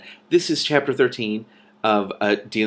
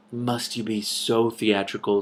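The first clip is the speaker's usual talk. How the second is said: dry scorn; slower than usual. Acted. Cimmerian mocking Antrell.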